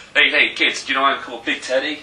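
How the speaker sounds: put-on loud, jolly kids' mascot greeting; hammed-up friendly teddy bear; cuddly teddy bear voice. Mocking the big man as a cuddly kids' bear, loud jolly voice. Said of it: "cuddly teddy bear".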